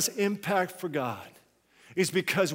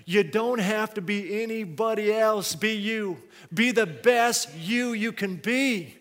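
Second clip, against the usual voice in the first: higher, emphatic pulpit exhortation; forceful preaching; 5 semitones higher, 6 dB louder than usual. Real, not acted. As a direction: urge the congregation on, voice raised.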